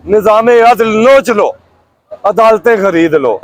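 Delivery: measured, declaimed Urdu verse with falling line ends; rhythmic protest poetry; poem recitation. Acted. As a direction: recite it line by line, pausing after each. Recites own political verse.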